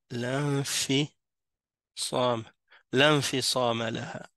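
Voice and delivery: "L'infisam laha" joined as lanfisam laha, measured; silent hamzat al-wasl. Shown as a demonstration. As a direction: break down "l'infisam" slowly, lan as one syllable. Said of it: "on ne le prononce pas".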